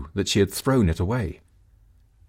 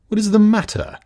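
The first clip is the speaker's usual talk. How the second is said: calling out; 13 semitones higher, 6 dB louder than usual. Acted. Husband calls from spirit house.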